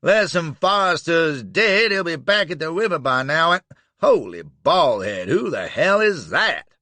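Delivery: high, loud Southern yell; alarmed Southern holler; Dixie shouting. Acted. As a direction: rant then startle loudly.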